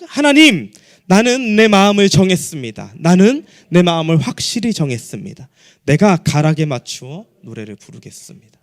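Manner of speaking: firm, projected recitation; solemn pulpit declaration; declaratory scripture reading. Acted. Leads congregation reading scripture.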